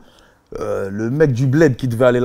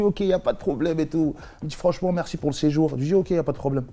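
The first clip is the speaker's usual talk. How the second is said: attempted Creole accent; 4 semitones higher than usual. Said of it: "je vais essayer de faire l'accent créole".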